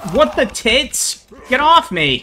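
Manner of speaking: high shrieking shock; startled panic. Real, not acted. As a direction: yelp as it grabs you. Monster grabs player.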